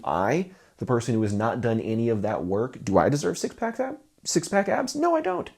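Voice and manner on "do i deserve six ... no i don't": emphatic self-answer. Acted. Rhetorical question answering himself.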